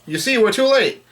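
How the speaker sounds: lightly hammed-up exclamation; Usopp's mock yell. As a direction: wail it high without a full shout. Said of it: "Usopp yells out".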